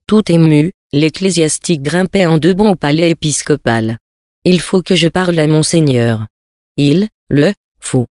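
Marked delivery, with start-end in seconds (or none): 4.4-8.1 peremptory. A narrator's reading. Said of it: "d'un accent si péremptoire".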